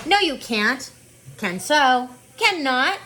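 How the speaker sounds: quick back-and-forth squabble, rising; childish bickering. Acted. Sister bickering with her brother over berries, rising childish retort. Siblings arguing in story.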